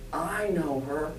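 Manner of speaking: put-on slow, drawn-out Southern accent; lightly imitated Southern lady; thick Southern accent. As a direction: attempt a Southern accent, stretching the vowels. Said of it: "in a thick Southern accent".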